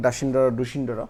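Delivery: ডাসিন্ডর, ডুসিন্ডর run together as single words; childhood pronunciation. Shown as a demonstration. Teacher recalling how they read it in childhood, run-together pronunciation. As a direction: say ডাসিন্ডর, ডুসিন্ডর as a slurred childhood chant of letter names. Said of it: "আমরা ছোটোবেলা মনে হয় এরকম পড়েছিলাম".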